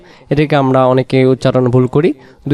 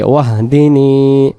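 slow recitation; much slower than usual. Shown as a demonstration. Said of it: "teacher recites word slowly".

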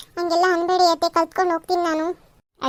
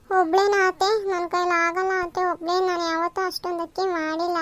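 put-on higher-pitched young wife role; protesting daughter-in-law; 6 semitones higher than usual. Daughter-in-law objecting to cleaning rice alone, higher and pleading.

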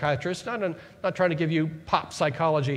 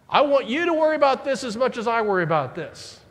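louder, higher fretting voice; mock worried nag; 5 semitones higher, 5 dB louder than usual. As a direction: play the anxious friend pushing worry on you. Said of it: "people who want to bring us down".

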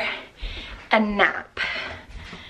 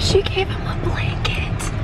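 breathy whisper from a lost voice; hoarse whisper; 8 semitones higher than usual. Real, not acted. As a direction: whisper it, voice almost gone. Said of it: "I'm losing my voice".

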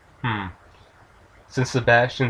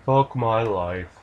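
dismayed; slower than usual. Real, not acted. Player dismayed after sighing.

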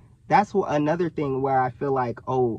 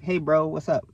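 casual, upbeat bro greeting; easy, open hello to a bro; friendly stranger greeting. Retold or imitated. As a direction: greet him like a chatty stranger. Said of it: "people be like".

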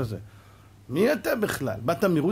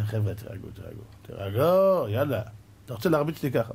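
calming; 5 semitones lower than usual. Retold or imitated. Rabbi calms the shouting crowd, low and soothing. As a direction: settle the angry crowd down.

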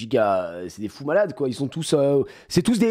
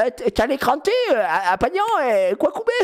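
high mock street-kid voice; lazy mock youth chatter, half laughing; mocking young slang; 11 semitones higher than usual. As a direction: toss it off like a teen with a laugh in it. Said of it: "ils sont en mode".

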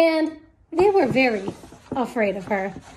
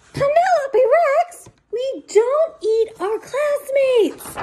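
slow, firm, higher scolding dad; stern father; 10 semitones higher, slower than usual. Acted. The father scolding Penelope about eating classmates, slow and firm. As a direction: lay down the rule, slowly and firmly.

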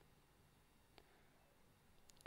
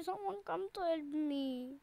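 softer, tearful plea for help; crying plea; 4 dB quieter than usual. Pretend. Frozen in the game, begs strangers for help while crying. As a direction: whimper it like you're stuck and nobody comes. Frozen player begging for rescue.

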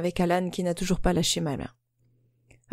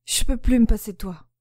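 pleading; 3 semitones higher than usual. Acted. Pleading lover's confession.

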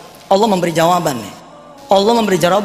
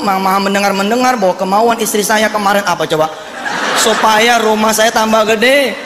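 fretful prayer. Acted. Husband's fretful midnight prayer acted out.

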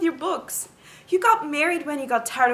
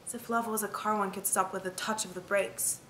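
quiet sorrow; 6 semitones lower, 9 dB quieter than usual. Acted. Quiet sad memory of Papa.

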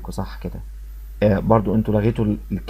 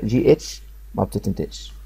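جي اتش ما بتتنطقش said slowly and softer, word by word; slow choral repeat; 4 dB quieter than usual. Shown as a demonstration. Teacher leading students to repeat the rule together, slow and soft. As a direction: lead the class through it slowly, syllable by syllable. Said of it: "نقولها مع بعض كده".

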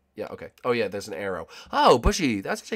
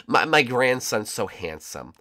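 lightly voiced grandma, slow and louder; mock doting grandma; 5 dB louder, slower than usual. Gamer mocking his own bragging about Joseph, lightly voiced doting grandma. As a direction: gush slowly like a proud grandma. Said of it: "that sounds like a grandma".

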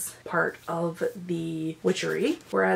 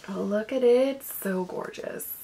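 gushing; 3 semitones higher, slower than usual. Real, not acted. Gushing over a book cover.

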